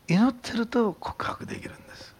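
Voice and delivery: breathless stage whisper; hushed preacher's whisper. Acted. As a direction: lean in and whisper it like a secret. Preacher suddenly drops to whisper.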